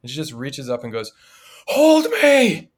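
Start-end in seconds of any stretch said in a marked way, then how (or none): 1.7-2.7 put-on high, loud, demanding little-girl squeal; loud, high little girl demanding to be picked up; little girl's high-pitched voice. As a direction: demand it like a bossy toddler. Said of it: "she said it in a little girl's high-pitched voice".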